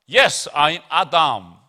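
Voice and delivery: loud, slow, drawn-out Adam voice; hammed-up Adam introducing himself; playing Adam. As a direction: answer as Adam, stretched out. Acting Adam answering.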